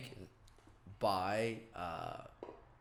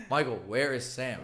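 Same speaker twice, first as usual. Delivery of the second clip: higher, louder imitated demand; mock insistent; 4 semitones higher, 6 dB louder than usual. Sister asks where her brother is, retold insistent demand. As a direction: imitate a sister pressing for an answer.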